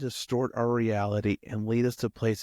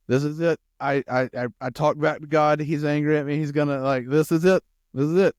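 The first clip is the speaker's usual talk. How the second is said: freaking out; 4 semitones higher, 4 dB louder than usual. Acted. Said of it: "I'm sure Elijah's freaking out".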